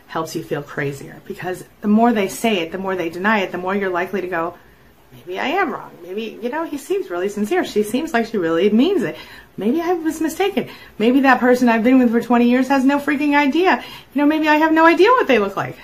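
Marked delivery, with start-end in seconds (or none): 5.1-15.8 high, wavering self-persuasion, acted; doubting oneself. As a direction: talk yourself out of what you saw. Acting out self-doubt, reasoning it away.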